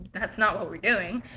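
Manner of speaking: soft, low, easy correction; polite correction. Shown as a demonstration. How the teacher could have corrected the student, softly and politely. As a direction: say it quietly, without any attitude. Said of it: "don't have to talk to me like that".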